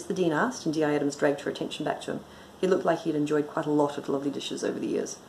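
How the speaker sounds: brisk, even audiobook reading; story narration. A narrator's reading. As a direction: read the story aloud with dry composure. Reads own story aloud.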